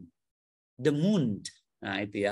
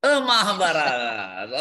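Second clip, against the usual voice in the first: laughing echo; 6 dB louder than usual. Real, not acted.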